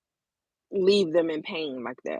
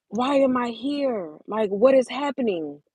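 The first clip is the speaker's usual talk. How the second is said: distressed questioning; 5 semitones higher than usual. Retold or imitated. Woman recalling crying alone to God, distressed questioning. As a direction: retell a bewildered, upset question.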